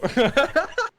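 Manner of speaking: squeaky burst of laughter; a sudden high giggle; high-pitched laugh. Real, not acted.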